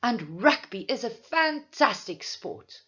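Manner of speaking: confident statement, falling at the end; firm statement. Shown as a demonstration. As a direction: declare it as a firm opinion. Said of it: "hear the change between your statement and your tag".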